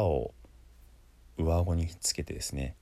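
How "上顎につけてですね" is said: ordinary delivery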